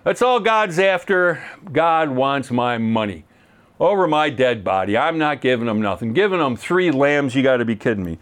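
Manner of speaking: lightly voiced scoffing critic, slowed at first; mock skeptic. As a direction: play a grumbling doubter, understated. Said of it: "I can just hear some anti-religious person".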